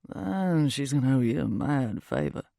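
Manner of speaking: put-on wry remark in a British accent. A narrator's reading. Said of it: "He has this British accent".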